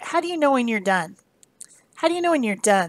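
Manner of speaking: usual speaking voice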